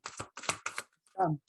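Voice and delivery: whispered. Shown as a demonstration.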